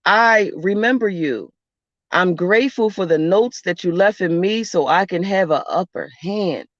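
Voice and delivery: solemn ancestor prayer. Shown as a demonstration. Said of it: "call out their name and just say".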